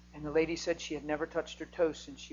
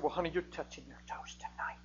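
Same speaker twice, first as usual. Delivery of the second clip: bubbly; 6 dB quieter than usual. Retold or imitated. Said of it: "I just said it real bubbly".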